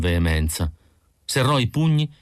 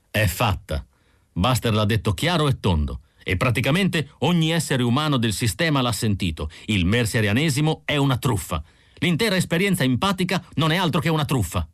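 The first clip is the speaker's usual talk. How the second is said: lightly voiced man, rising to a higher, quicker finish; Roy triumphant; 5 semitones higher than usual. Roy to the androids, triumphant, lightly voiced. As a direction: announce the win, building.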